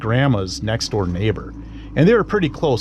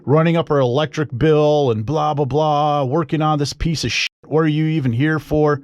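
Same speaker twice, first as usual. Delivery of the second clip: higher-pitched retold tirade, not truly screamed; mock screaming rant; 5 semitones higher than usual. Garage owner's brother berating him over the car, mock screaming. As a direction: imitate an angry man's telling-off. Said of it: "he's screaming stuff like".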